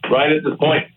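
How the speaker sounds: distant speakerphone sound; talking over a speakerphone. Real, not acted. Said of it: "you sound like you're on a speakerphone".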